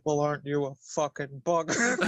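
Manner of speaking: flat, even mock insult; monotone voice. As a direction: deliver it with no inflection. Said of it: "with his monotone voice".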